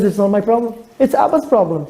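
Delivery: put-on high, wide-eyed little girl; child voice. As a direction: play an amazed eleven-year-old, pitched well up. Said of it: "She says".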